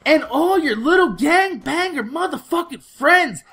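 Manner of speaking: high-pitched mock mom screaming threats; screaming angry mom. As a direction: scream it like an enraged mother catching him out. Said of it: "her mom gets out the car and she's like".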